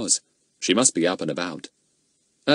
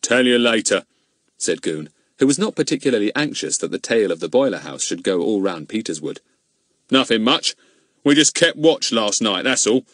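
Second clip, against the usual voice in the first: Goon's voice; 3 dB louder than usual. Acted. Goon dodging the old man's question, gruff. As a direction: brush it off like a gruff constable.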